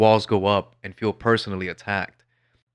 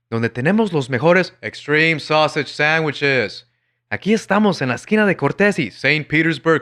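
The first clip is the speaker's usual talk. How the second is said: high, loud mock Spanish ad voice with clumsy English names; forced Spanglish ad; 5 semitones higher, 4 dB louder than usual. Mocking a Jack in the Box ad, hammed-up loud high announcer. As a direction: overdo a cheesy announcer forcing the other language. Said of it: "Imagine it the other way around".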